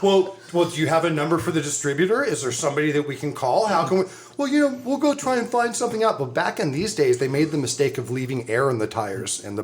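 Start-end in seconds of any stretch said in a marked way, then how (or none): 0.0-4.0 mock polite customer. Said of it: "And Joe's like". 4.4-6.2 high, fast put-on clerk voice; a hammed-up store clerk brushing them off, higher; mock clerk voice. Imitating the Kmart clerk to friends, high and fast.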